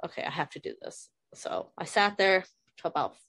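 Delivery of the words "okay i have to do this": whispered self-talk. Retold or imitated. Inner resolve, retold self-talk.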